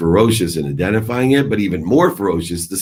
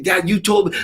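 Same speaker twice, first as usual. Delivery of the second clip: much higher squeaky mock voice of a defensive teenager; mocking daughter voice; 14 semitones higher than usual. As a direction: ham up the daughter, pitched way up. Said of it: "she would have said".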